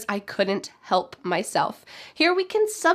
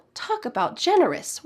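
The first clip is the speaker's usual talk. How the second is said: "generous" pitched up, then falling; emphasize "generous" with a swoop; emphatic exclamation; 4 semitones higher than usual. Shown as a demonstration. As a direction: make "generous" the high point. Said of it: "use this to emphasize the point".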